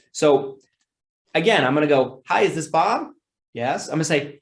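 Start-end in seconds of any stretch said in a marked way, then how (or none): 2.3-3.1 raised, upbeat phone hello; enthusiastic greeting. Shown as a demonstration. Salesman repeating his eager opening line to Bob. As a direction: sound glad he picked up. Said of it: "emphasizing your words and your tones".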